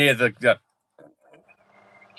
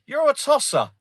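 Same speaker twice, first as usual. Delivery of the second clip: higher, hammed-up clickbait YouTuber voice; mocking YouTuber; 12 semitones higher than usual. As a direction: parody a rage-bait video host, pitched up. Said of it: "Where it's like".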